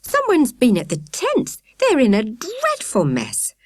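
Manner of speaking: high, slow, breathless distress; woman reports the ransacked tents breathlessly; breathless alarm. A narrator's reading. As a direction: gasp it out, upset. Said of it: "she added breathlessly".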